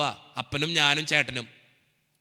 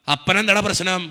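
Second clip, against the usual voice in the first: louder retold questioning; father's pointed, raised question; insistent father; 5 dB louder than usual. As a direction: press him for an answer, voice up. Father questioning his son.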